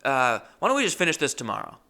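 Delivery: sudden high, loud snap; snapping outburst. Retold or imitated. Customer snapping at tattoo artist, loud high outburst. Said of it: "I snapped and I just went".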